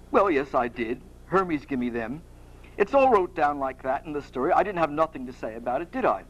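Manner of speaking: grudging Cockney admission, understated; a touch of amateur Cockney; Perseus. Acted. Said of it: "like to do a Cockney accent".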